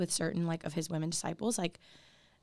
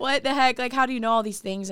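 astonished; 6 semitones higher, 8 dB louder than usual. Retold or imitated. Voicing astonished woman.

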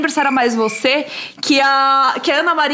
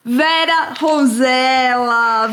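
slow drawn-out grand announcement; announcer introduction; much slower than usual. Acted. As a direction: present the guest like a show host. Announcing guest slowly.

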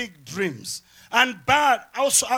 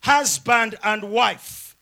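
slow, measured wedding declaration; wedding officiant; slower than usual. Acted. Officiant declares a couple married, lightly acted slow declaration. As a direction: pronounce it slowly, as if to a couple. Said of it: "It's a way when people say".

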